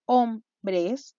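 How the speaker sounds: "Hombres" split into two syllables, hom, bres; "Hombres" broken in two for counting. Shown as a demonstration. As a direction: pause between the syllables of "Hombres". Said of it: "¿Cuántas sílabas teníamos en total?".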